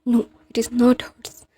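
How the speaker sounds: slow, breathy mocking whisper. Mocking his partner's hurt, in a slow whisper. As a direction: whisper it back with a sneer, slowly. Mocking reply to lover's complaint.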